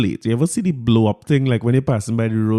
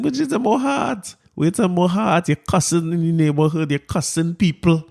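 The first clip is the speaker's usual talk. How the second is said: exasperated parent, voice pitched high; high-pitched incredulous scolding, retold; worked up; 6 semitones higher than usual. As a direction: scold the child in a high, disbelieving voice. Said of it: "All right, let me calm down".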